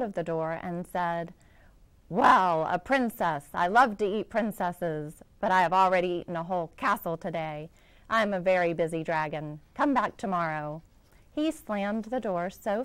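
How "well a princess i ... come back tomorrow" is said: loud, brisk dragon brushing her off; a self-important dragon in a hurry; busy dragon. Acted. Dragon dismissing the princess at his door, loud and hurried.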